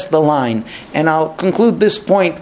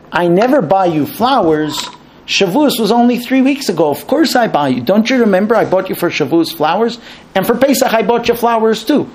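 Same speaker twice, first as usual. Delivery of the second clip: husband protesting in a lightly raised pitch; quick to defend himself, a touch higher; defensive husband; 5 semitones higher than usual. Retold or imitated. Husband answers wife's complaint, mildly defensive. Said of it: "classical husband response".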